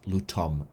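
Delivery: Lutum with a final M; pronunciation shown. Shown as a demonstration. Game master repeats the name before spelling it, Lutum ending in M. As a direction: sound out Lutum, closing on M. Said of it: "Lutum with an M".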